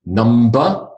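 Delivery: Number, the first of two heteronyms, drawn out; two senses of number. Shown as a demonstration. Teacher contrasts two words spelt alike, slow demonstration. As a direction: say Number slowly and distinctly. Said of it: "the comparative and the superlative".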